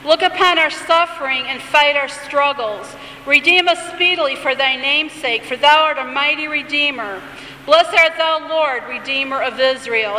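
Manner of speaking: lightly intoned liturgical reading; a hint of solemn recitation; prayer reading. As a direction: read it as a gentle prayer. Reads the Amidah prayer aloud.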